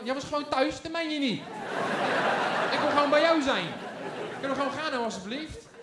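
high, loud whiny pleading to mom; a little boy desperate to go home with his mother; begging child. Retold or imitated. Child begs mother, whining. (jengelend kind, hoog en luid smekend)

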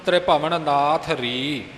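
slow, measured chant of the verse; scripture recitation. Shown as a demonstration. Teacher recites the verse for learners, measured chant. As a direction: recite each word clearly for pupils.

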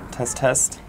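bright peppy cheer voice; sounding like a cheerleader. Real, not acted. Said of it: "I just sounded like a cheerleader".

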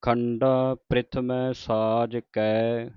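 drawn-out devotional reading, line by line; slow scripture recitation. Shown as a demonstration. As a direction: recite it slowly like Gurbani santhiya. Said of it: "ਸੋ ਅੱਗੇ ਸ਼ੁਰੂ ਹੁੰਦੀ ਹੈ ਪੌੜੀ". (ਹੌਲੀ ਹੌਲੀ ਪਾਠ ਦਾ ਉਚਾਰਨ)

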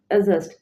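অ্যাডজাস্ট with the D left out; silent D. Shown as a demonstration. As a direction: say অ্যাডজাস্ট as "a-just". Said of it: "ডির উচ্চারণ হবে না".

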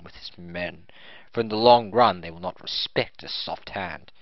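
proud disciplined knight; firm, strict officer; stern swordsman voice. Acted. Noble accepts hire.

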